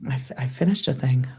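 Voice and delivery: whispered mock-modest boast; hushed little boast about finishing. Real, not acted. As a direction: whisper it like a small secret. Quiet mock-modest aside.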